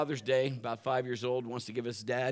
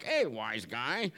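sarcastic jab; 5 semitones lower, 5 dB quieter, much slower than usual. Shown as a demonstration. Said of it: "Not as much as like".

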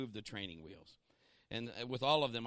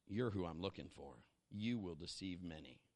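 devil's low menace; 9 semitones lower, 8 dB quieter than usual. Acted. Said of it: "The devil said".

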